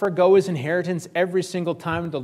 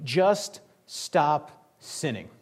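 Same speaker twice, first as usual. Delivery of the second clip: drawn-out plea; much slower than usual. Retold or imitated. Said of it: "he just starts yelling".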